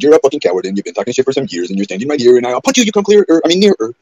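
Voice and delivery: loud, high furious insults; furious rant. Retold or imitated. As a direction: tear into him, shouting. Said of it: "I said".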